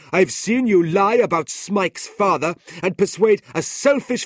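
high, loud accusing clerk; indignant Noggs. A narrator's reading. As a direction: throw his crimes at him, outraged.

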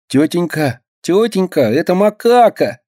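high, nasal tattling; nasal whine. A narrator's reading. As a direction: whine it through the nose. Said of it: "гнусавит Минька".

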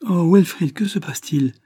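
high, alarmed exclamation; frightened cry. A narrator's reading. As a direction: cry out in alarm, pitched well up. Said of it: "s'écria Maria épouvantée". (cri épouvanté, voix aiguë)

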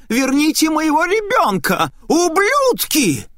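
high, loud demonic shriek, stretching the last word slowly; a vengeful spirit screaming through a woman; unearthly possessed scream. Acted. Possessed woman screams at those who took her child. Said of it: "Она закричала таким голосом, какого я никогда".

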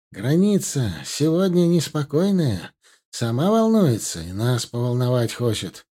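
запыхавшись на бегу, торопливо; говорить, задыхаясь от бега; urgent panting report. Acted. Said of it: "задыхаясь от бега, крикнул". (запыхавшийся крик на бегу)

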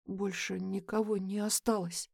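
softly, under the breath; quiet. A narrator's reading. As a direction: say it quietly, shaken. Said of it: "говорит Джеймс тихо".

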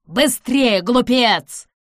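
loud, high, urgent command; exclaimed. A narrator's reading. Hendrick urges the madman on, exclaiming. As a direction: shout at a fool to hurry. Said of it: "воскликнул Хендрик".

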